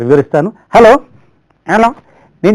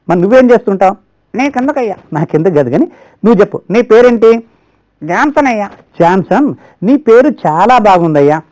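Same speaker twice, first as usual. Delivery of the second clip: higher cheeky puppet voice; 4 semitones higher than usual. Acted. Ventriloquist puppet talking back to its handler.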